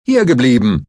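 loud, sharp command; commanding bark. A narrator's reading. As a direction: stop him cold with one order. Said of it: "herrschte Stahl ihn an".

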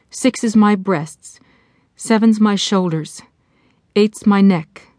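measured recitation of a counting rhyme; mantra recitation. Acted. Jessie saying her relaxation mantra aloud, measured recitation. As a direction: recite it line by line, pausing between. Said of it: "She began the mantra again".

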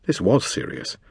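barely voiced, almost a whisper; hushed gravity. A narrator's reading. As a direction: let the weight land in a breath. Grave realisation in memoir.

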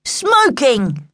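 teasing provocation; winding her up. A narrator's reading. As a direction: call it out to wind up a sister. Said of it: "Luke tried to wind her up".

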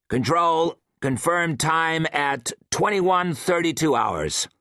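clipped radio call; over the intercom, formal. Acted. Austin on the intercom.

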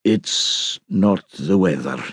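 slow, gloomy aside; gloomily. A narrator's reading. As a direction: let it drag out, slow and gloomy. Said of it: "observed gloomily".

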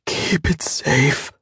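dying grandfather gasping a last order; gasped. A narrator's reading. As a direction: squeeze the words out on a failing breath. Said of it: "he gasped".

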